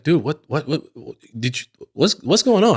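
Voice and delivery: high, frantic, stammering friend on the phone; panicked friend. Retold or imitated. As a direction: sputter it out like a baffled buddy calling. Friend Dom calls, panicked.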